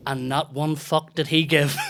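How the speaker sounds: slow, loud, laughing through it. Real, not acted. Telling friend about the gig, slow laughing emphasis. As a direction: spell it out slowly while laughing.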